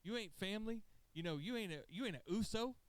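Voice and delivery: lightly hammed-up wrestler shouting he's not family; mock angry rant. Jey telling Sami he ain't blood, mock angry. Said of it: "He goes".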